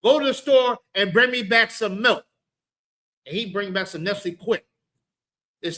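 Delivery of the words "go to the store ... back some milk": mock parent yelling. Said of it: "Yell at the kid".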